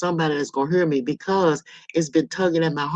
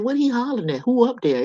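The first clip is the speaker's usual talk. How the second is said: put-on high, curious child-self voice; nosy little kid; 8 semitones higher than usual. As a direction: wonder aloud like a snooping child. Nosy child self wondering about yelling.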